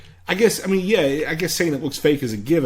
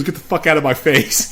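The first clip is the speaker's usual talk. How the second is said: rude brush-off; 3 semitones higher, 4 dB louder than usual. Retold or imitated. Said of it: "Oh, he's rude".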